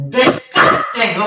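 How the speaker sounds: slow, scornful spat word. Acted. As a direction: spit it out in disgust. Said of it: "spat Papagayo".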